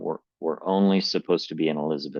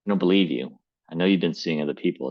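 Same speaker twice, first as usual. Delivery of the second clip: angry accusation; faster than usual. Acted. Dad accuses Mom in fight.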